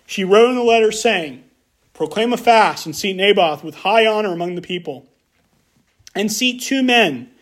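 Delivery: measured, even Bible reading to a congregation; formal read-aloud with falling phrase ends; scripture reading. Acted. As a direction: read the passage aloud plainly and deliberately. Reads a Bible passage aloud.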